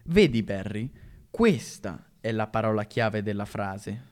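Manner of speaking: cheerful. Acted. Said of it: "aggiunse allegramente".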